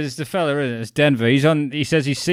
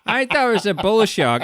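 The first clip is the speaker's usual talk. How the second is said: nerdy shark specialist; 9 semitones higher than usual. Retold or imitated. Imitating the specialist studying the surfer's bite marks, high and fussy. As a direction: play the eager specialist admiring the bite. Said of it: "and go".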